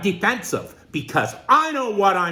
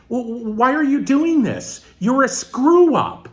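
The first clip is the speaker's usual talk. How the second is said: a hint of nagging parent, louder at the end; scolding parent; 4 semitones higher, 4 dB louder than usual. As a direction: nag like a disappointed parent. Parents scolding, acted quote.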